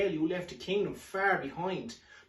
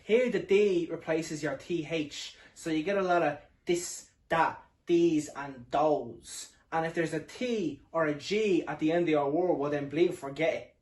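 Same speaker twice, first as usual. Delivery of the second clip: a light north Dublin accent, D for TH; lightly put-on northside Dublin Irish; understated north Dublin voice. Shown as a demonstration. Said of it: "you'd be hearing people talking like this".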